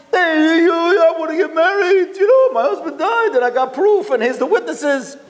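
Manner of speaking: hammed-up weeping widow begging the rabbi; mock crying plea. Scheming writer fakes tears to the rabbi, high whiny sobbing. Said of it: "and she's crying".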